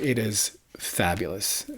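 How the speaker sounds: breathy whisper of awe; whispered praise. Real, not acted. Record collector whispering his love for an album. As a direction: hush it like a secret treasure.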